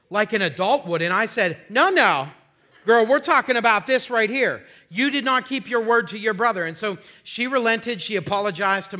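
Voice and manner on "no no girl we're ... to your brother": loud, raised-pitch telling-off; retold stern correction, punched out loud; firm parental scolding. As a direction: cut in and lay down the law like a dad. Father firmly corrects his daughter.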